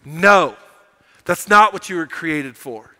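loud, commanding "No"; firm roar. Acted. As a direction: forbid it with authority. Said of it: "there's a roar that comes from Jesus that says".

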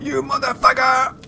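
high, strained cursing; squeaky curse. Real, not acted. Player swearing at the game enemy, high-pitched.

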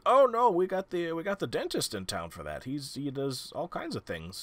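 hint of a hesitant old-timer; elderly townsman Darren. Darren defends the town dentist's prices, lightly voiced old man.

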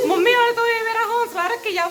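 high, loud whiny mock sob; play-cry for sympathy. Sulking over mum's glasses comment.

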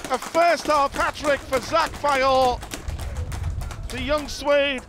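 crown the moment; excited hat-trick call. Real, not acted. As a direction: commentator celebrating a first half hat-trick. Hat-trick goal called live.

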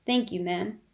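lightly voiced gruff old gentleman; a hint of gruff dryness; gruff old man. Old Mr Lawrence answers Jo behind her, lightly gruff. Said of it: "said a gruff voice behind her".

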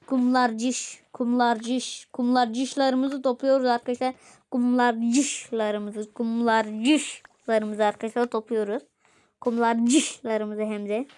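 very slow, sing-song Kumlarcışlarımızı; slow motion. Shown as a demonstration. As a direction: stretch out Kumlarcışlarımızı playfully. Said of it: "Ben niye kumlarcış diyorum?".

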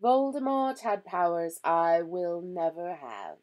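slow, projected, calm statement; composed, measured old professor. A narrator's reading. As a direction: state it calmly and deliberately. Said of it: "said Dumbledore calmly".

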